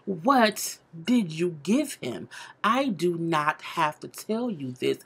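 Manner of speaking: drawn-out, lightly voiced prying; a hint of a dramatic interrogation; slow mock confrontation. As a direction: stretch each word like a nosy coworker.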